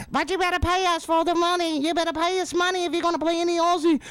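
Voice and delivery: hammed-up Sharon voice; Sharon nagging. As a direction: nag him about money. Acted exchange between Sharon and a singer.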